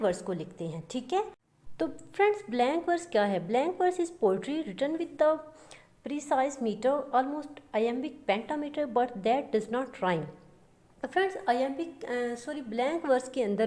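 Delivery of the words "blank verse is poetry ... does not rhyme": slow, even reading of a definition; slow, deliberate dictation pace; dictating a definition. Shown as a demonstration. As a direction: read it out slowly so students can write it down. Reads the definition out slowly.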